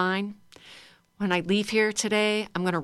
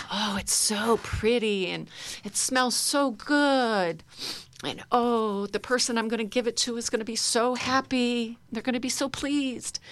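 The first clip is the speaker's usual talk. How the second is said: delighted gushing; 4 semitones higher than usual. Shown as a demonstration. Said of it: "and you sort of just, you know".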